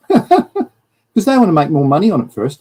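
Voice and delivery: laughing. Real, not acted. Laughing sarcastic jab at government.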